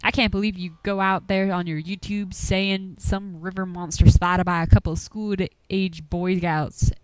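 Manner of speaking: lightly voiced old country hunter, grumbling; a hint of a gruff Appalachian old-timer warning folks off. Game master voicing Duke, shooing the players from his woods, gruffly.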